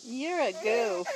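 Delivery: slow giggly teasing; laughing through words. Real, not acted. Parent teasing silly baby, laughing. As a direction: say it while still laughing.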